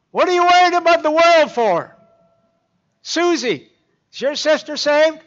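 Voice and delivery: put-on very high, loud old lady voice; little lady calling across the living room, very high and loud; piping little lady. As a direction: pipe up like a tiny elder lady. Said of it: "piped up".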